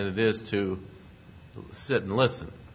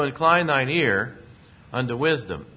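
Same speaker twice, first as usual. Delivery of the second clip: preaching verse; 3 semitones higher, 5 dB louder than usual. Acted. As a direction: proclaim the verse like from the pulpit. Preacher repeats verse emphatically.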